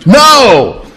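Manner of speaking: high, forceful parental NO; very emphatic no. Acted. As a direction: refuse outright like a fed-up parent. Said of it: "it was very emphatic".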